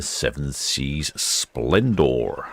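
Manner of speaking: slow Splendor in an American accent; slightly American "Splendor". Real, not acted. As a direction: give Splendor the American sound, drawn out. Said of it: "feel a need for an American accent when I'm saying Splendor".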